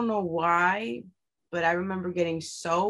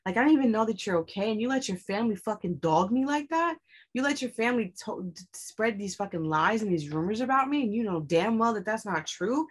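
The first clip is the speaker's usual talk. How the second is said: raised, heated retelling of a confrontation; retold angry outburst; 3 semitones higher than usual. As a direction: replay the fight with rising heat, higher pitch. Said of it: "I just became so mad at him".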